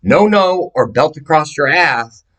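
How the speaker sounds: put-on dad warning his kid off the gun, high yell; stern father shouting. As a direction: bark it like an angry dad. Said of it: "Daddy's saying".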